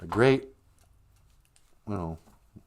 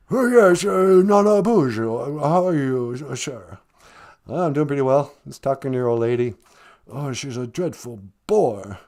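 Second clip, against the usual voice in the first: lightly put-on English accent; a hint of a posh British prince; mild English accent as Prince Harry; 2 semitones lower than usual. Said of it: "Prince Harry".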